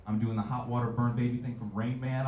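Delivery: ordinary talk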